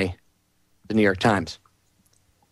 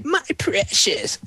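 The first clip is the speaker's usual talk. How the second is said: Smeagol voice; 5 semitones higher, slower than usual. Retold or imitated. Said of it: "reminds me of a subdued Schmeagol voice".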